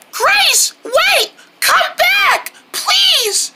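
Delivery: high, pleading call after her. Acted. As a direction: call her back as she walks away. Friends calling after leaving Grace.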